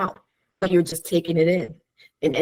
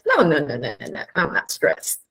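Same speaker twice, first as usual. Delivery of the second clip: denial; 2 semitones lower than usual. Retold or imitated. Patient denies in acted dialogue.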